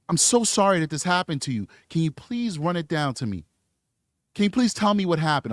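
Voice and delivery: polite, articulate professional voice; proper professional. Retold or imitated. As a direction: speak carefully like a courteous officer. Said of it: "And he would say".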